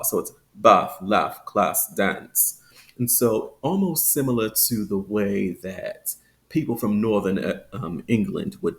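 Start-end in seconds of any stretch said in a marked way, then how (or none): 0.5-2.6 "bath, laugh, class, dance" with a short, clipped "ah"; halfway between the flat "a" and the long "ah" in "dance"; shortened ah. Shown as a demonstration. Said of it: "kind of a shortened ah".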